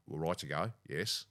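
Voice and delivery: lightly voiced premier; a hint of a stern politician; Dan impression. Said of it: "Can you do Dan?".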